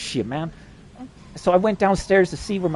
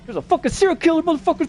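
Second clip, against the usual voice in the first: retold yelling; 13 semitones higher than usual. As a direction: retell a frantic yell way up high. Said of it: "I was yelling".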